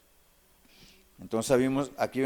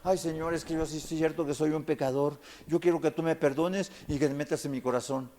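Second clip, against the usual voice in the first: mock prayer. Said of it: "repites con el pastor una oración".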